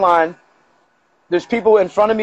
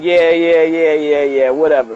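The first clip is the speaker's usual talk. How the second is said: retold scoffing, no laugh; mocking dismissal; 3 semitones lower than usual. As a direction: run of yeahs sliding down in pitch. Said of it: "Everybody starts laughing, like".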